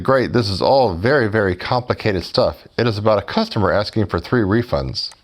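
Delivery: dry mock praise for a simple task; sarcastic. Customer mocks the support agent, sarcastic. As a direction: lay the sarcasm on thick but keep it light. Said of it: "I'm sure you can detect the sarcasm there".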